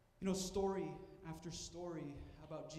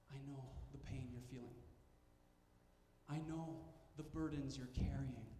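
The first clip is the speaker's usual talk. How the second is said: tender God's voice; 4 semitones lower than usual. Retold or imitated. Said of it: "God comes to our level and says".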